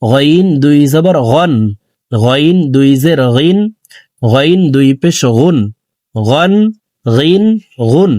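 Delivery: গইন, গন, গিন, গুন from the end of the throat; careful demo of গন, গিন, গুন with throaty gh; throaty Ghain. Shown as a demonstration. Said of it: "গইন হরফকে হলকের শেষ থেকে পড়ব".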